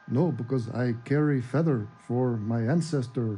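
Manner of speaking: put-on a light, low Native American accent, slowed. Playing Goodfeather for the stream, in a mild Native American accent. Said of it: "that was my general Native American accent".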